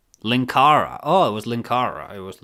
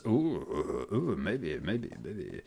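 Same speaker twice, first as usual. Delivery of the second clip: sly teasing; 6 semitones lower, 12 dB quieter, much slower than usual. Real, not acted. Teasing about blackjacks and hookers.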